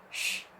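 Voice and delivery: "sh" held as a hissing sh; shin sound. Shown as a demonstration. Teacher showing students the shin letter, a drawn-out sh. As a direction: hold out a clear "sh" sound. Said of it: "Jadi shin besar".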